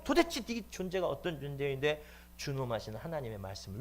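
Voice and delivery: acted preacher's rebuke; stern scolding. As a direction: scold him indignantly. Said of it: "막 거기서 호통을 치니까".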